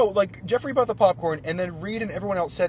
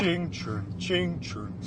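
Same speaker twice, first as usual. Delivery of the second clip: spur jingle; 6 dB quieter, much slower than usual. Retold or imitated. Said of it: "with every other step, it went down a pitch".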